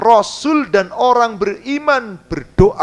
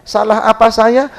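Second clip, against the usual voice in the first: mock-indignant, louder whine; whiny complaint; 5 dB louder than usual. Preacher mocking how some Muslims complain to God, whining. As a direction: ham up a self-pitying protest. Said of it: "orang Islam yang ngomongnya gitu".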